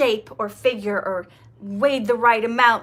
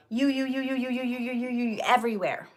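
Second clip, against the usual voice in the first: softer, like voices bouncing off mirrors; fading echo; 5 dB quieter, faster than usual. Acted. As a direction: let each you echo and fade.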